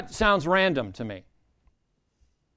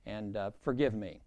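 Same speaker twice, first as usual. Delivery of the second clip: sheepish, winding down lower and softer; apology that trails lower; mild apology; 3 semitones lower, 3 dB quieter than usual. Acted. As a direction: voice someone half-heartedly saying sorry. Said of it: "they come back and say".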